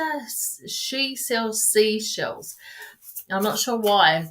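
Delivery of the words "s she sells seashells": slow, deliberate, each word placed: "she sells seashells"; careful tongue twister. Shown as a demonstration. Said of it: "the tongue twister?".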